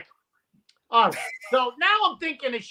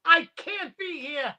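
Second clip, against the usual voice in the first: higher-pitched mock indignation; pissed off; 5 semitones higher than usual. Offended priest leaving the room, pissed off. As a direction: act out an offended walkout. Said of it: "Pissed off".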